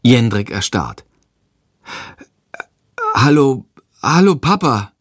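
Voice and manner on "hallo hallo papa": higher, stunned hello; dumbfounded. A narrator's reading. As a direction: greet him, taken aback. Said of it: "sagt er verdattert". (verdattert, überrumpelt)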